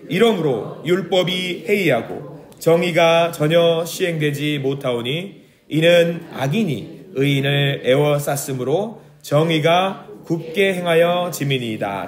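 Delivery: slow, measured Bible reading; scripture reading. Shown as a demonstration. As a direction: read the verse slowly and solemnly. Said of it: "사 절 읽겠습니다".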